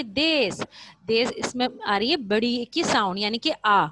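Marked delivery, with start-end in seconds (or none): 0.0-0.6 دیس said des with a held ay; long ay sound. Shown as a demonstration. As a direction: stretch the ay vowel in دیس. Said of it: "کون سی sound آ رہی ہے؟".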